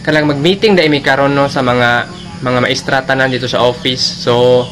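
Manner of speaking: loud, low classroom exchange; loud classroom talk. Acted. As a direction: call it out across the classroom. School scene, loud teacher. (kusog nga tingog sa klasehanan)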